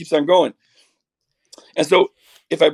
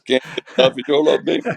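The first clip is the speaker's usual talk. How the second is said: impression of a singer; 2 semitones lower, faster than usual. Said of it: "My singer voice".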